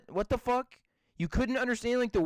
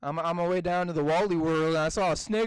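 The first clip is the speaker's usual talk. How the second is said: put-on rustic southern storyteller; southern accent; 4 semitones lower than usual. Telling a salesman tale to tease, southern accent. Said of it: "a southern accent out of nowhere".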